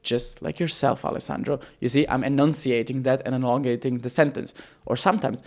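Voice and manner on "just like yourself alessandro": drawn-out, carefully enunciated pitch; deliberate and slow, dropping softer on the name; slow, elongated enunciation. Shown as a demonstration. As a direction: stretch the words out slowly. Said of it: "you wanna say something very slowly".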